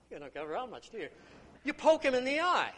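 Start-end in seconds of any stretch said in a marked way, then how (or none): 1.6-2.7 punchline burst. Acted. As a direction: punch the line out loud and high. Punchline of the old joke.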